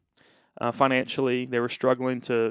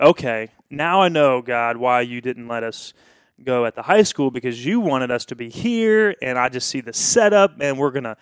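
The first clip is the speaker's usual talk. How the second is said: loud, eager praise to God; excited prayer; 7 dB louder than usual. Retold or imitated. Pastor thanking God he sees the plan, loud and thrilled. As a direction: pour out the excitement, louder. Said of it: "And then I'm like".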